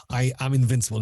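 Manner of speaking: put-on halfhearted Russian accent; a quick, failed stab at a Russian villain; loosely attempted Russian villain boast. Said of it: "I can't do a Russian accent".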